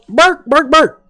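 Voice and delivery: high barking dog imitation. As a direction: bark like a small dog. GM barks for dog.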